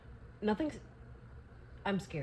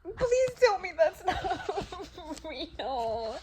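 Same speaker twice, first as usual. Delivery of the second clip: high, drawn-out sobbing plea; crying; 8 semitones higher, much slower than usual. Real, not acted. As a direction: beg through tears, breaking into sobs. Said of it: "my tears".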